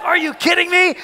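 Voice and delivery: high, incredulous exclamation; retold disbelief. Winner hearing his name drawn again, retold high disbelief. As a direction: pitch it up, amazed at your luck.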